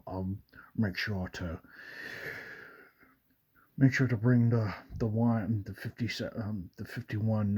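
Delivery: lightly voiced young Scottish spy; a hint of a suave movie agent addressing his secretary; Sean Connery. Shown as a demonstration. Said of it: "I have the voice for him".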